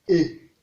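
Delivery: E on a short low tone. Shown as a demonstration. Teacher showing the tones, E on low tone. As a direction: drop E to the low tone. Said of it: "ton bas".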